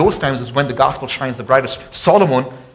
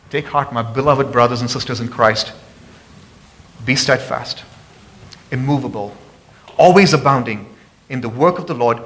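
tender reassurance. Acted. Pastor gently reassuring tired believers. Soft reassuring verse after climax.

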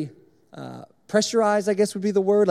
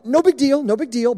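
higher, louder retold reassurance; nervous downplaying; 6 semitones higher, 4 dB louder than usual. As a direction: play down trouble to mom. Downplaying the leak to mom.

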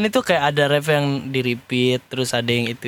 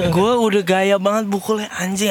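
laughing; 5 semitones higher than usual. Real, not acted. Laughs at own mistake.

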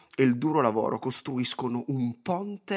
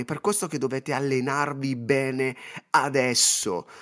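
normal talking voice

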